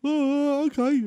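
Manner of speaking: high, hesitant okay; high baffled okay from the caller. Retold or imitated. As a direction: give up, puzzled. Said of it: "He went".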